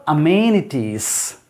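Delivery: drawn-out "amenities", leaning on its second syllable; second-syllable stress. Shown as a demonstration. Teacher showing learners where the stress falls, second-syllable stress on "amenities". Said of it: "stress is on second syllable here".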